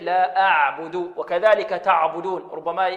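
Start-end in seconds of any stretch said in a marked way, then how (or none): 0.0-0.9 أعبد with a thin hamza and flowing ع; careful, unthickened أعبد; correct light pron. Shown as a demonstration. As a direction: keep أعبد light from the first sound. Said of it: "بل الصحيح".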